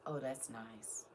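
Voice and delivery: breathy whispered aside to herself; hushed in quiet awe; soft whisper. Real, not acted. Reading an old gift book alone, whispering softly.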